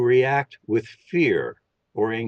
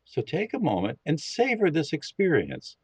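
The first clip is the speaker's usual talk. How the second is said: calm, steady guiding voice for a listening exercise; guided meditation. Acted. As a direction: lead them gently into listening. Leads a meditation.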